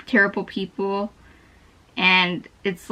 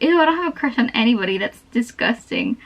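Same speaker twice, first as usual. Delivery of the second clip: grossed out. Retold or imitated. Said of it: "grossed out".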